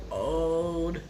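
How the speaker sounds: slow, drawn-out toast; solemn toast. Real, not acted. Grandchild toasting late grandmother, slow and drawn out. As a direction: raise a glass slowly to Gigi.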